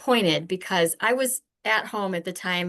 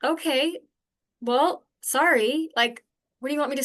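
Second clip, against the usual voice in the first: snippy higher half-apology; grudging sorry; 5 semitones higher than usual. Retold or imitated. Wife brushing off husband's complaint, snippy grudging sorry. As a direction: toss off a sorry you don't mean. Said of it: "It was just like".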